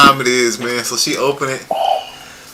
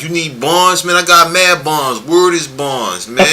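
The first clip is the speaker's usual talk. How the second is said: street hawker; 5 semitones higher, slower than usual. Pretend. Acted street hawker selling bonds.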